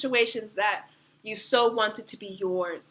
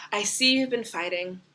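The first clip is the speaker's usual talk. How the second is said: gentle reassurance. Pretend. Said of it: "Eight of Wands is coming in to say".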